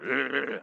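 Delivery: low growled "ugh"; grumpy grunt. Retold or imitated. Grumpy youth pastor answering a morning greeting, low grunt. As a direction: mimic a grumpy grunt in reply. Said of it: "he looked at me and went".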